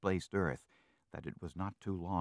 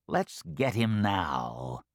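scheming fox; 2 semitones higher, 4 dB louder, slower than usual. Acted. Fox urges attack.

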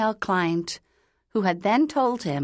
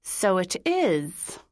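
slow, forced through gritted teeth; much slower than usual. A narrator's reading. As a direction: grit your teeth and say it. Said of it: "through gritted teeth".

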